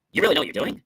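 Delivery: brisk doubting question; sarcastic question. Shown as a demonstration. Speaker showing how tone flips praise, sarcastic question. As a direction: challenge them with the praise. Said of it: "What if I said it like this?".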